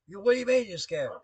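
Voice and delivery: high, loud mock outrage; chief's incredulous rebuke. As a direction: throw it back as a disbelieving chief. Chief incredulous at scared sailor.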